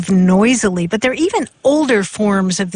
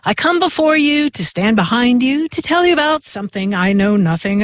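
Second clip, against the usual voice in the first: mock speech recital; 2 semitones higher than usual. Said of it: "shared one that continues".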